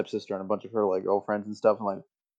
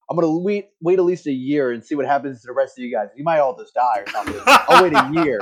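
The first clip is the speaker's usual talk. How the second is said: put-on French African accent; 4 semitones higher, 6 dB louder than usual. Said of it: "He had a French accent".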